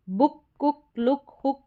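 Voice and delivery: बुक, कुक, लुक, हुक with a quick short "u"; short "u" sound. Shown as a demonstration. Teacher contrasts with long vowel, short "u" sound. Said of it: "और ये short sound है".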